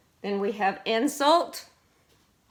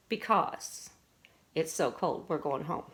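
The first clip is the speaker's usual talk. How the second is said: whispered example; 4 semitones lower, 5 dB quieter than usual. Shown as a demonstration. Teacher repeats example sentence softly.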